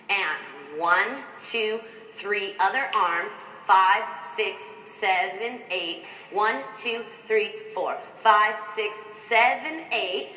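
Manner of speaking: counting the beats aloud; dance count. Shown as a demonstration. Choreographer counting the arm section. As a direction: call the counts in rhythm. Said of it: "imagine that you can match your arms".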